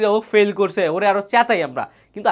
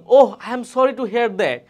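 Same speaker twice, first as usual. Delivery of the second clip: sympathetic model line; 3 semitones higher, 4 dB louder, much slower than usual. Shown as a demonstration. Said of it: "আমরা কোন ক্ষেত্রে দিচ্ছি".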